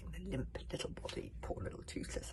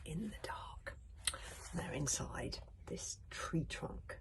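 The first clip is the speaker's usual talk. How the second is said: whispered story reading; 3 dB louder than usual. A narrator's reading. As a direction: read the tale in a hush.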